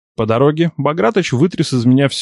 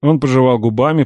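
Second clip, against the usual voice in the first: plain reading voice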